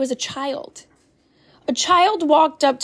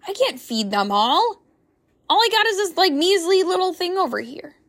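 mock doubting excuse; 3 semitones higher than usual. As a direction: play the overwhelmed doubter, pitch climbing.

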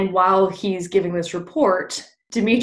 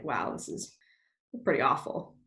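dismayed Oberon; 6 semitones lower, 7 dB quieter than usual. Retold or imitated. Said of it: "is like".

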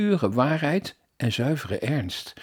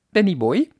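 cheerful laugh; 7 semitones higher, 5 dB louder than usual. A narrator's reading. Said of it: "lachte Henk, ditmaal heel vrolijk".

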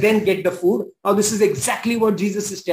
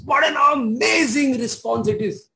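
excited exclaim; 4 semitones higher than usual. Real, not acted. Preacher marvelling at the woman's answer, excited. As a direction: exclaim it with wonder. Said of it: "repeated exclamation".

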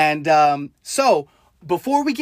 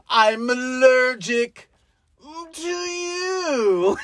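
slow, stretched-out turtle voice; allergic turtle; 2 semitones higher, much slower than usual. Acted. Imitating the movie's turtle roasting Atreyu, slow drawl. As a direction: drag out each word, rising on the end. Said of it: "why is he like".

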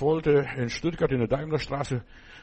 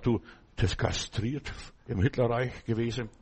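usual speaking voice

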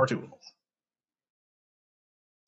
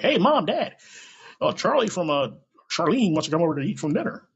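put-on higher, louder, cheery kid calling to his parents; imitating a kid; 4 semitones higher, 4 dB louder than usual. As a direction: pipe up like an excited kid at home. Kid announcing drag guest to parents.

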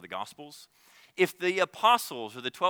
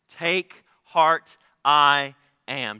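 proclaimed boldly; 8 dB louder, much slower than usual. Shown as a demonstration.

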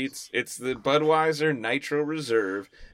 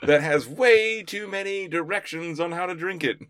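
laughing; 6 semitones higher than usual. Retold or imitated. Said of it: "be like".

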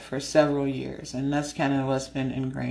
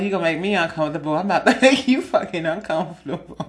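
mock threat; 2 semitones higher, 5 dB louder, faster than usual. Threatening the pervert back.

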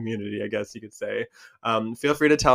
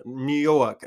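slow New York accent, r dropped; classic New York accent; 3 semitones higher, 5 dB louder than usual. Shown as a demonstration. Creator contrasting pronunciations for listeners, classic New York accent. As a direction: say it like a New Yorker, drawn out. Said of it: "a classic New York accent".

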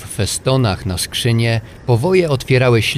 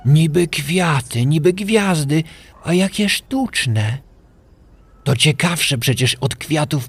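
marvelling; 5 semitones higher than usual. A narrator's reading. Kaj admires magnified snowflakes for Gerda, awed. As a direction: draw out the words in fascination.

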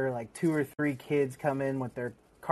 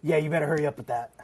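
a quick, lightly voiced smug Hank; Hank's voice; faster than usual. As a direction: rattle it off fast as a taunting Hank. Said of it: "in his, uh, voice".

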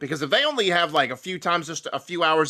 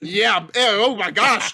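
disgusted; 4 semitones higher, 5 dB louder, slower than usual. Real, not acted. Grossed out by resurrection joke.

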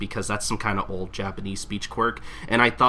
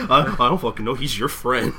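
Gintoki voice; 3 semitones higher, 4 dB louder than usual. Retold or imitated. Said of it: "how he sounds in the anime".

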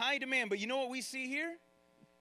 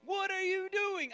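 scolding apostles; 7 semitones higher than usual. Retold or imitated. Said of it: "scolding Jesus".

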